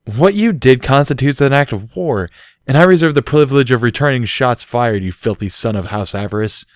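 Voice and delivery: playful theatrical threat; mock declaration. A narrator's reading. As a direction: declare war with relish. Barry declaring revenge.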